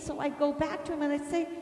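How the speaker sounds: usual speaking voice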